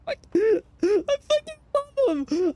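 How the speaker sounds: high, breaking laugh through the words. Real, not acted. Sailor laughing about the officer who spared him, high laughing voice. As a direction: laugh it out with real fondness.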